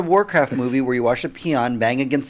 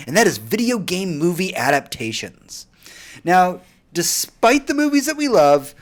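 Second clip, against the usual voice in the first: podcast host intro. Acted. Host welcoming adventurers to the Boss Room, upbeat announcer read. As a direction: sell the segment to your listeners like a show host.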